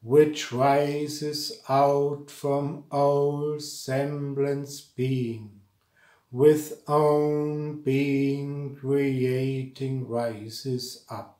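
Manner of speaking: slow, measured chant-like delivery with drawn-out words; mantric verse recitation. Shown as a demonstration. Teacher reciting a mantric verse to students, slow solemn recitation. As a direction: recite each line deliberately, pausing between phrases.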